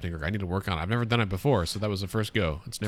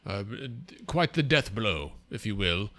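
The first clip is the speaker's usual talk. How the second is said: pompous funny voice. Acted. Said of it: "What is this voice you're doing?".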